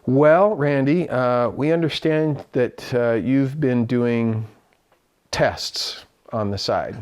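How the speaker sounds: slow, deliberate opening with hesitant pauses; measured boss voice. Retold or imitated. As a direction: ease slowly into an awkward talk, imitating a boss. Producer's formal confrontation, retold.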